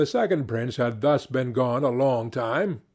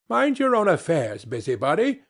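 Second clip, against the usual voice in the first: a touch of scorn, brushing him off; lightly voiced proud prince snapping back; scornful; 3 semitones higher than usual. Second prince waves off the meddling dwarf, mildly scornful. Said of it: "said the prince scornfully".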